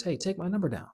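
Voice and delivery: assuming the close. Shown as a demonstration. Showing viewers how to confidently offer a girl your number. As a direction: tell her to take the number as a done deal. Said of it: "So what you say is".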